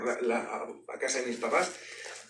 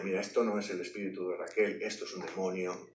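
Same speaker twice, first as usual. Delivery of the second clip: madre serena; 9 semitones lower, 10 dB quieter than usual. Retold or imitated. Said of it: "mi mamá nos dijo la verdad".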